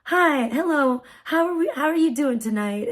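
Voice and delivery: lilting, friendly greeting; calm, nice voice. Retold or imitated. Attendant greeting a frazzled driver, calm and kindly. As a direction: imitate a kindly parking attendant. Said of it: "the calmest, nicest voice".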